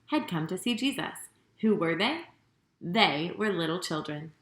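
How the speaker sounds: gentle storybook read-aloud, lively with the quotes; reading to children. A narrator's reading. Children's host reading a Bible story to young viewers, storybook read-aloud. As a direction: tell the story as if to a room of little kids.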